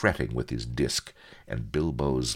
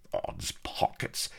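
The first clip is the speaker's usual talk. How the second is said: breathy, slow whispered curse; whispered oath; 6 dB quieter than usual. Acted. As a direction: hiss the oath under your breath. Bilbo's oath, unvoiced.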